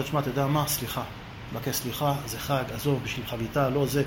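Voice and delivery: שחזור התנצלות, נמוך ושקט; לפייס בקול נמוך וחלש; התנצלות מפייסת. Retold or imitated. מתנצל ומפייס בסיפור המריבה. (התנצלות שקטה ומרגיעה)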